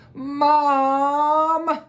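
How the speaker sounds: high, whiny protest; protesting kid. Acted. Michael protesting to his mother, high and whiny. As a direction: whine it like a disappointed boy. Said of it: "Michael said".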